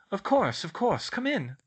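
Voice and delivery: welcoming. Acted. Professor invites a student inside, welcoming. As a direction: usher them in gladly.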